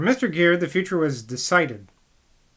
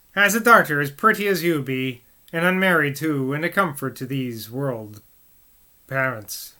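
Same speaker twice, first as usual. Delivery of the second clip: put-on a light old Montacute accent; gently in the old Montacute accent. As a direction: soften into a Somerset burr. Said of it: "the old Montacute accent".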